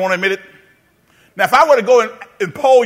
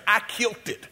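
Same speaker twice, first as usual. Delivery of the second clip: playful call to repeat; 7 dB quieter than usual. Shown as a demonstration.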